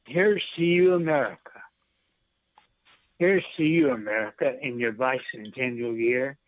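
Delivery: measured poem recital with a lift on the toasts; poem reading. Acted. Poet reading his verse to the radio host, proudly. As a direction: read it like a proud toast to the nation.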